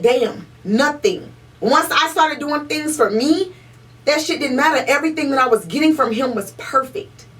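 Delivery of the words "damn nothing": slow realization. Retold or imitated. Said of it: "And I said".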